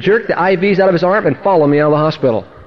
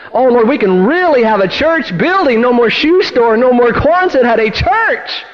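mildly raised, eager plea to God; excited prayer; 5 semitones higher, slower than usual. Retold or imitated. Congregation dreams of a real church building, excited prayer. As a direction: build eagerly, stretching the final phrase.

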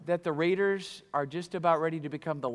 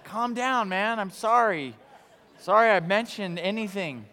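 placating apology; 3 semitones higher, 3 dB louder than usual. Retold or imitated. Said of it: "and you're like".

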